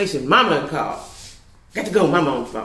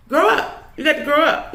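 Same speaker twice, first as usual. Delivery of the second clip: exasperated; 9 semitones higher than usual. Retold or imitated. Telling the boyfriend off.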